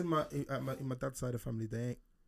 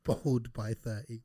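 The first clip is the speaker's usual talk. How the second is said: slow teasing drawl; much slower than usual. Real, not acted. Teasing prediction, drawn out.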